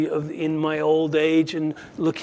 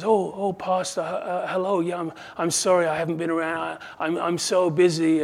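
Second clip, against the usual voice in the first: awkward; 2 semitones higher than usual. Acted. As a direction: stammer through an embarrassed apology, lightly acted. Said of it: "she awkwardly says".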